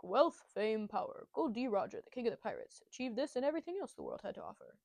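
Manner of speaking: lightly put-on anime intro narration; quick recital of a grand prologue, lightly acted; anime narrator. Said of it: "In the anime, it's like".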